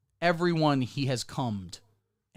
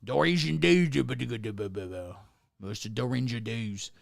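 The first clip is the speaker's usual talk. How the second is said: silly announcer greeting; 4 semitones lower, much slower than usual. Pretend.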